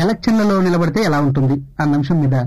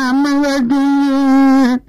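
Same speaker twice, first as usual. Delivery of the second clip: put-on crying child; 6 semitones higher, much slower than usual. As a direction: wail it like a hurt little boy. Crying boy's reply voiced. (ఏడుస్తున్న పిల్లాడి గొంతు)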